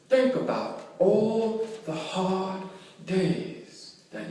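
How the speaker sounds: slow, spaced-out sermon cadence; deliberate pulpit exhortation with long pauses; earnest preaching. Real, not acted. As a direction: preach it phrase by phrase, stretching the key words. Preaches to congregation.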